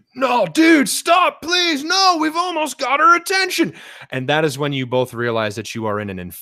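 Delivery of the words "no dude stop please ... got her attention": very high-pitched, shrill, raised shouting. Voicing a senator clutching a player's arm: Senator Limpkin shouting. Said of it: "shouting at you".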